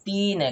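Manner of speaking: dental, Hindi 't' at the start of तीन; soft dental t. Shown as a demonstration. Teacher shows pupils the name's reading, dental t. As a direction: say तीन with the tongue on the teeth. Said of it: "क्या बोलेंगे इसको?".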